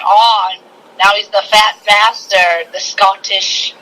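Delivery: slow, lightly voiced Scottish Fat Bastard; a hint of a greedy Scottish brute, drawn out. Fat Bastard threatening Mini-Me, slow mock Scottish growl. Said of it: "he's like".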